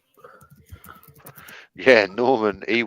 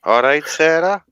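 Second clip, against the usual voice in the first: higher-pitched put-on Welsh greeting; bad Welsh accent; 5 semitones higher, 3 dB louder than usual. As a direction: ham up a Valleys Welsh lilt. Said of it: "your Welsh accent then was worse".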